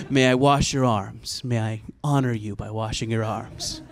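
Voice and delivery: lightly hushed, ceremonious offer; understated namaste courtesy; mock reverent. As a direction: honor him with a touch of solemn politeness. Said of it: "very respectful in this ... namaste kind of way".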